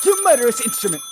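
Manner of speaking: loud, fast scolding of the phone; furious at the telephone; angry outburst. Acted. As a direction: snap at the phone in a fury.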